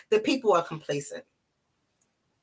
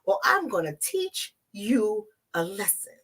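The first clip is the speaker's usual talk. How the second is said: mock warning. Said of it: "We're still being told".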